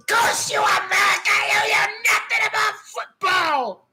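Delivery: retold scream. Streamer mimics a fan cursing America over football, mock scream. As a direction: imitate an angry fan's cursing scream. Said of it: "He's screaming. He's like".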